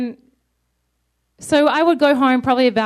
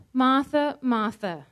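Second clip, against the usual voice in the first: tender repeat; 3 dB quieter, slower than usual. Shown as a demonstration. Preacher echoing Jesus, the second Martha softer. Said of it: "What does that mean?".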